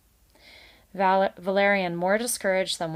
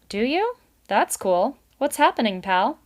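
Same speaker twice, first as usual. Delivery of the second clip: high, loud breezy beaver; a salesman pal act; brash beaver; 5 semitones higher, 7 dB louder than usual. A narrator's reading. Beaver chats up nervous Valerian, loud and breezy.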